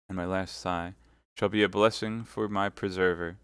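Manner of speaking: lightly pleading, rising then subsiding; mild, measured entreaty; sweet, suppliant. Acted. Milady begging Felton to let her die, mildly suppliant. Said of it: "that voice so sweet and suppliant".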